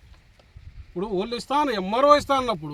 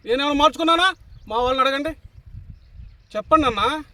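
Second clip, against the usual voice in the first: louder, higher indignant challenge; raised voice, daring anyone to say yes; indignant outburst; 4 semitones higher, 4 dB louder, faster than usual. Real, not acted. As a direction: fire the question back at him. Angry rhetorical challenge to accuser.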